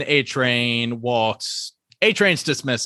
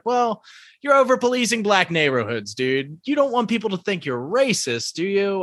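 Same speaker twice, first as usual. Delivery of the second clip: higher smug mock voice; condescending; 6 semitones higher than usual. Blue Hawk condescends to A-Train, higher smug voice. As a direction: talk down to him. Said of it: "And he's like".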